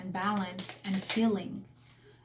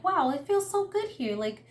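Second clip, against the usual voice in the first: put-on much higher, childlike voice of wonder; little kid; 9 semitones higher than usual. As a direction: imitate an awed little kid, high-pitched. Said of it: "this little kid was just like".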